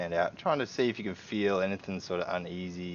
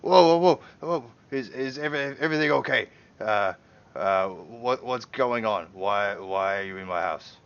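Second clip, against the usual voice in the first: startled homeowner; 5 dB louder than usual. Acted. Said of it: "he's like".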